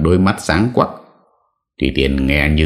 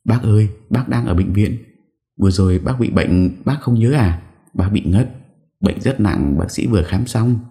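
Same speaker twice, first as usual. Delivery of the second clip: gentle, polite; 6 semitones higher than usual. A narrator's reading. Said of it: "lễ phép nhẹ nhàng cô giải thích".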